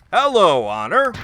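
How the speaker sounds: hammy over-acted greeting, loud; lightly voiced bad actor. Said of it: "this bad actor voice".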